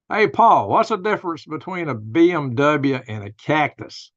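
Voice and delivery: teasing joke setup. Retold or imitated. Setting up a joke at lunch.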